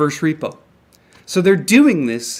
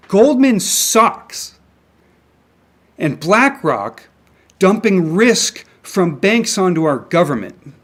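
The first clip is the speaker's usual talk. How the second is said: angry; 2 semitones higher, 3 dB louder, slower than usual. Real, not acted. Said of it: "Sorry, I'm angry".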